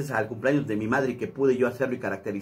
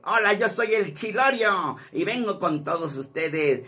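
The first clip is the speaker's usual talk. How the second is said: lightly voiced Chilorio, slightly raised pitch; 3 semitones higher than usual. Shown as a demonstration. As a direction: introduce yourself as a silly comic character. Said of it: "la voz del Chilorio".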